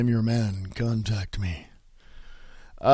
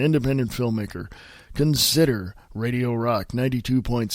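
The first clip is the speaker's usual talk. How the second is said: lower, smooth station-announcer read; radio promo voice; 3 semitones lower, 3 dB quieter than usual. Shown as a demonstration. Host plugs a station for independent artists, low promo voice. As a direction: drop into a measured promo voice.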